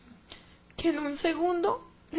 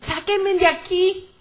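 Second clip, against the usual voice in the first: higher, slow, insistent cry; desperate plea; 4 semitones higher, 3 dB louder, slower than usual. Retold or imitated. Woman in the pit demands rescue, drawn-out desperate plea. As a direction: stretch out a pleading demand for rescue. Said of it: "Empecé a gritar desesperada".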